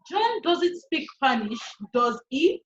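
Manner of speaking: "does he?" rises at the end; rising tag. Shown as a demonstration. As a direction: let "does he?" lift up, unsure. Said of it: "So here the intonation goes up".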